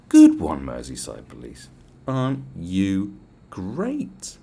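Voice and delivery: loud mock "good one"; loud mocking praise; sarcastic. Mocking the Merseyside police.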